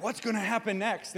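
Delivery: hopeful excited take; eager. Shown as a demonstration. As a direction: ask it full of possibility. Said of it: "you have all this energy".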